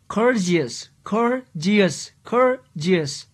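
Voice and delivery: courteous repeated, split after its first syllable; syllables sounded out. Shown as a demonstration. Teacher counting syllables for the class, courteous sounded out in parts. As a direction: break courteous into cour and teous. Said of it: "three syllables".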